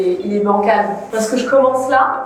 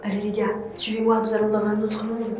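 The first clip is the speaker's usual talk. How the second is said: mock portal guide; 8 dB quieter than usual. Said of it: "C'est ridicule ce que je fais".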